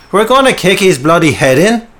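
loud, high, aggressive outburst; snarling skinhead menace; violent threat. Acted. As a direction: threaten him like an angry thug.

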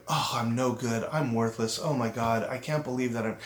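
soft, low self-critical mutter; inner critic voice. Retold or imitated. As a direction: voice the nagging inner critic under your breath. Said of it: "when that voice starts talking to you".

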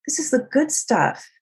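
high, insistent no no no; emphatic reassurance. Retold or imitated. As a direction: cut off their apology, eager to reassure. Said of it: "I'm like".

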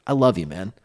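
casual, mate-to-mate affection; brotherly love. Shown as a demonstration. Co-host gets told he's loved, brotherly. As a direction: say it like a brother to his buddy. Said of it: "It's like a brotherly love".

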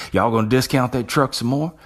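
a light mock Texas twang haggling over a truck; fake Texas twang. Shown as a demonstration. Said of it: "a Texas twang".

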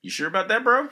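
sarcastic. Real, not acted. Sarcastic reply to movie clip.

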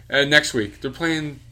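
mock-mom rooting for the rival; teasing mom. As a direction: drag out the fake cheering. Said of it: "And she would do that".

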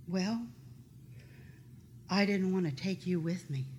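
soft, halting reply with long pauses; subdued retold answer. Sister explains herself in the tent, softly and haltingly. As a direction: answer quietly, leaving space between phrases.

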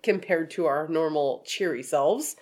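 blocked nose, head cold; stuffed-up nose. Real, not acted. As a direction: speak through sinus congestion. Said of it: "sound a little stuffed up".

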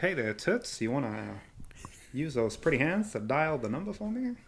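lightly voiced sleazy exec, hushed; leering wheezy old man. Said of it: "He's like".

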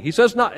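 "not" pushed up in pitch; stress on not. Shown as a demonstration. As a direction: lean on the word "not". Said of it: "he doesn't say".

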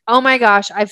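mock-excited, lifting on "finally"; super excited. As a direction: play the thrill of finally getting there. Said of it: "start to feel just super excited".

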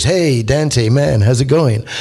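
lightly voiced easygoing Belacqua greeting; a relaxed, unbothered hello to an old friend; laid-back voice. Belacqua greets Dante on the mountain, lightly laid-back. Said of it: "there's this laid back voice goes".

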